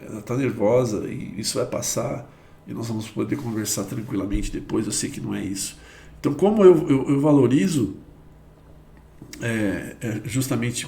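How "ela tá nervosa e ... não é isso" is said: calm reassurance. Retold or imitated. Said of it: "E pra outro é".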